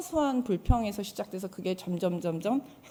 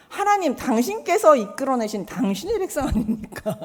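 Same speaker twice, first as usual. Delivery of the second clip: indignant retort; 5 semitones higher, 5 dB louder than usual. Retold or imitated. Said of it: "했더니 모세가".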